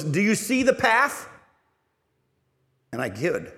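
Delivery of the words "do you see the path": high, loud, slow wondering question; excited girl. Retold or imitated. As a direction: ask it in high awe, slowly. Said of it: "she goes".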